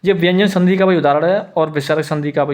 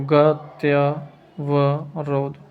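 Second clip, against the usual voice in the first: slow dictation; much slower than usual. Shown as a demonstration. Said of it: "गति अवरोध ऐसे लिखेंगे".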